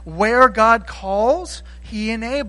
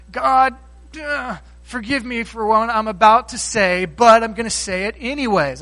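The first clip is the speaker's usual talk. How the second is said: apologetic Moses; 2 semitones higher, 4 dB louder than usual. Acted. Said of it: "using apologetic language".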